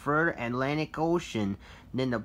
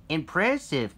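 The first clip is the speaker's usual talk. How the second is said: cheering; 3 semitones higher, 6 dB louder than usual. A narrator's reading. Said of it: "Wally cheered".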